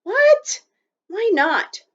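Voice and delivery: high, startled what; surprised. A narrator's reading. Omri startled that the teepee is rejected, surprised. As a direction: jump up in surprise.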